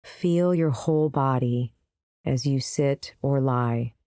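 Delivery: unhurried meditation guide with long pauses; calm, spaced-out guiding voice; guided meditation. Acted. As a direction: lead them gently into the practice, pausing between phrases.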